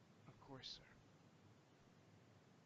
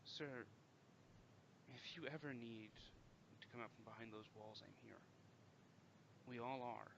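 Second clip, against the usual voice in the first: reassuring. Acted. Reassuring the lonely captain.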